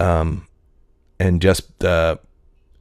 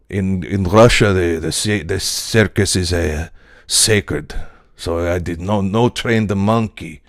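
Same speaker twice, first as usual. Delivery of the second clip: put-on light Russian accent; 3 dB louder than usual. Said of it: "do the Russian".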